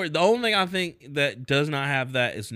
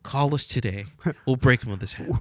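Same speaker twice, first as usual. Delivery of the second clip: ad voiceover; 6 semitones lower than usual. Acted. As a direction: read it like a TV ad. Parody rehab commercial.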